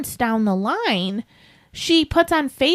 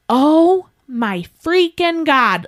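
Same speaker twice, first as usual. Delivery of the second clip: slow, drawn-out mock outburst; an exaggerated, slow exclamation of shock; retold loud exclamation; 3 semitones higher, much slower than usual. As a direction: imitate her loud outburst, stretching each word. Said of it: "as loud as she could".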